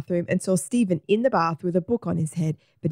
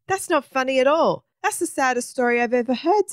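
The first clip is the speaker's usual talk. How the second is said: upset protest; 7 semitones higher than usual. A narrator's reading. Stephen protests at Egbert's sad story.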